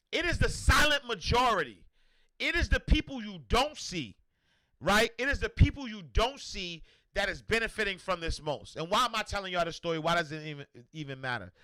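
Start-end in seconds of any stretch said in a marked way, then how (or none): 0.1-8.7 wife's emphatic lecture. Retold or imitated. Wife telling her husband the silent majority benefits, emphatic and raised. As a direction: drive the point home like a preacher. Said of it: "She said".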